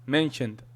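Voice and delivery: "Mentioned" ending in a light tongue tap; subtle final T. Shown as a demonstration. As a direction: let the tongue just touch the palate ending "Mentioned". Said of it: "let my tongue just touch the".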